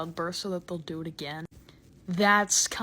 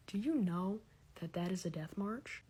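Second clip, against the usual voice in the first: hushed; 3 semitones lower, 7 dB quieter than usual. Acted. Mock secret confession.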